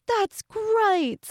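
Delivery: very high, excited mock British squeal; Peppa Pig. Retelling the clip to a friend, hammed-up excited British accent. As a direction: burst out in an overexcited cartoon British accent. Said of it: "so excited".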